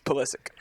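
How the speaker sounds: Pulisic as "puh-LISS-ick"; quoted pronunciation. Retold or imitated. Comparing the hosts' versions, Pulisic as "puh-LISS-ick". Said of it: "he says Pulisic".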